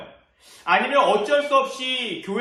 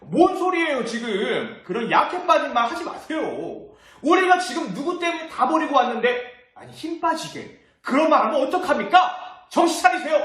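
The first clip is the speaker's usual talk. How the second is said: much higher and louder, exasperated rebuke; angry protest; 7 semitones higher, 4 dB louder than usual. Acted. Peter scolding Jesus for his weak talk, angry and loud. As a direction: scold him like an indignant disciple. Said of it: "화내면서".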